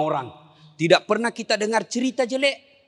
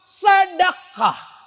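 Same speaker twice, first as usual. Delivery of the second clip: drawn-out shout; 12 semitones higher, 4 dB louder, much slower than usual. Acted. Preacher calls the answer to the congregation, a long shout. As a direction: stretch sedekah slow and loud.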